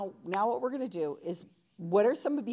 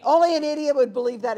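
mock scorn; 4 semitones higher, 9 dB louder than usual. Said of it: "mocking reactions".

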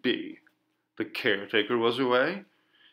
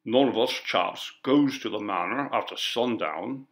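lightly voiced rural working man; stolid, unmoved refusal; stubborn villager. Villager answers the coroner, stubborn and rustic. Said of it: "said Mister Runt".

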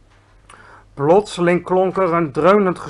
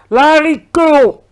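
drawn-out, high, loud roar; roared insult; 10 semitones higher, 12 dB louder, much slower than usual. A narrator's reading. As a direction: stretch the word into a huge scornful roar. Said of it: "brulde hij".

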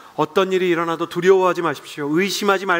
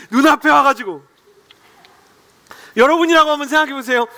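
ordinary talk

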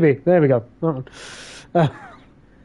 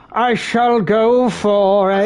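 grand setup line; 4 semitones higher, slower than usual. Pretend. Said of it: "A succulent Chinese meal".

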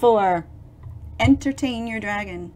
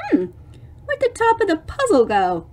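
put-on puzzled girl; 4 semitones higher, faster than usual. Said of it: "the girl going".

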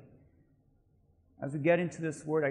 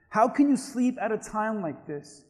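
understated captain's shout, only a little raised; mild narrated shout; 4 semitones higher, 4 dB louder than usual. Acted. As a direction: call it out lightly as the alarmed captain. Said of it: "he shouted".

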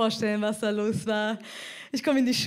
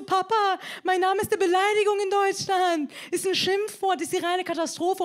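higher-pitched mild complaint; a touch of upset, pitched up; complaining daughter; 5 semitones higher than usual. Acted. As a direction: play a kid lightly protesting to dad. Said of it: "Ich geh so zu meinem Papa".

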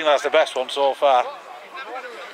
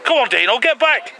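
shouting encouragement; 7 semitones higher, 4 dB louder than usual. Real, not acted. Calling to player on pitch.

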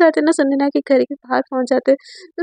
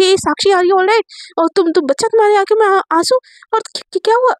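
alarmed concern; 5 semitones higher than usual. Acted. Worried at partner's tears.

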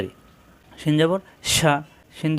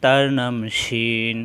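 lower, slow closing repeat; falling close; 5 semitones lower, much slower than usual. Shown as a demonstration. Teacher repeating the letter name lower to close. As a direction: let it settle low and slow. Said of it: "সিনের উপর তিন ফোঁটা".

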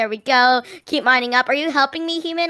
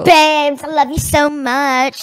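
gushing babes; 6 dB louder, slower than usual. Acted. Prime Sister gushing.

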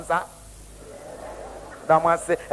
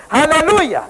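hallelujah call; 5 semitones higher than usual. Acted. Preacher calls out to congregation.

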